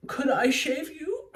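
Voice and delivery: high, slow, creepy-polite request; mock Dracula voice. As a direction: stretch it upward like an eager vampire. Voicing Dracula's odd request.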